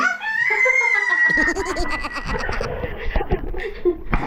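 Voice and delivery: high screaming burst of laughter; shrieking laugh. Real, not acted. Mom cracking up at her toddler's song, a shrieking laugh. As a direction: let a wild squealing laugh rip.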